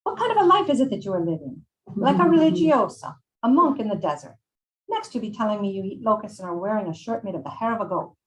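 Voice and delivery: put-on high, exasperated Italian-accented scolding; hammed-up outraged Italian accent; Maria, Italian accent. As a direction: berate them loudly as an old Italian woman. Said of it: "I'm going to butcher an Italian accent".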